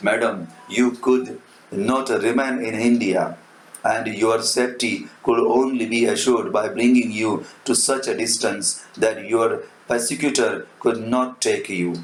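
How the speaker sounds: slow, deliberate English dialogue read; measured reading aloud; slow dramatic reading. Shown as a demonstration. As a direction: read it out slowly for the class. Teacher reads Fogg's line slowly.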